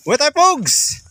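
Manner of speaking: high, sing-song call to the goats; calling animals. Real, not acted. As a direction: coax the goats home, calling out. Calling goats to come home. (pagtawag sa mga kambing)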